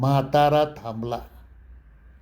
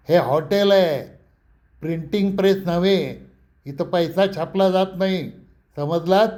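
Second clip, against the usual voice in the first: irritated scolding; 4 semitones higher than usual. Retold or imitated. Grumpy old hotel owner scolding a customer over change, raised and annoyed.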